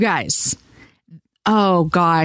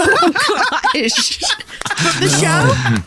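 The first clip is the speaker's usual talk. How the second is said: surprised; 11 semitones higher, much slower than usual. Real, not acted. Reacting to Carell news.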